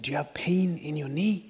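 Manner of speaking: whispered question on a quiet train. Retold or imitated. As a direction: whisper it so nobody else hears.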